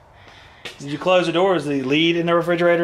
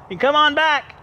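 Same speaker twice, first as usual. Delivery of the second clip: calling out; 10 semitones higher than usual. Real, not acted. Calling to far-off girl.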